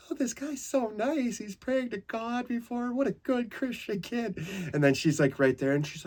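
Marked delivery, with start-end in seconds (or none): 0.1-4.4 mocking sweet nurse. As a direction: coo it like a charmed old nurse.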